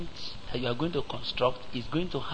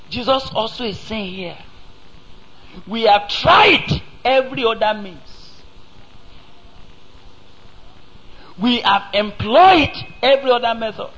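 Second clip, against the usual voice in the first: high, loud pulpit build-up; rising, pounding preacher cadence; preaching at full force; 7 semitones higher, 4 dB louder than usual. Acted. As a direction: drive it home to the congregation. Preaching climax, rising intensity.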